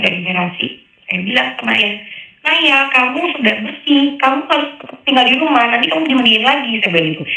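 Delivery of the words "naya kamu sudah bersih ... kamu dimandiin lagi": retold loud call. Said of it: "Saya ngomongnya agak kenceng".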